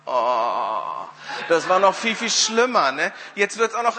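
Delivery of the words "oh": long, low mock wail "oh"; imitated weeping. Woman breaking into tears before Wimber, mock weeping. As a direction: imitate a woman starting to cry. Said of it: "fängt die Frau an zu weinen".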